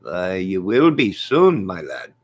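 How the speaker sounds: lightly voiced Irish taunt; slow and loud, dropping on the last words; McGregor. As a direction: tease like a cocky fighter. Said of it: "Mister McGregor".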